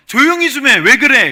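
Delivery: put-on, very loud, shrill, high-pitched scolding shout. A preacher acts out the crowd hushing Bartimaeus: mock scolding crowd. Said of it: "꾸짖으면서 조용히 하라고 했습니다".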